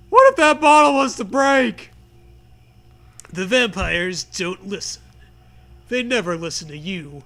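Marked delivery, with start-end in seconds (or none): 0.1-1.9 loud, higher scolding shout; yelling. Acted. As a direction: yell the worry at the kids. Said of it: "you yell".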